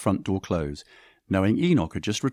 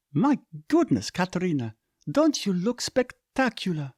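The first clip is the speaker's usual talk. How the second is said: gushing; 11 semitones higher than usual. A narrator's reading. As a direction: gush over her. Erie gushes over Katerina.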